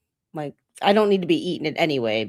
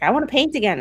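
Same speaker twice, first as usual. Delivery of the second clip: put-on higher-pitched child's plea; imitating a child; 8 semitones higher, much faster than usual. Parent quoting the child wanting to paint, higher voice. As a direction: lightly mimic a kid asking for more. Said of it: "and she's like".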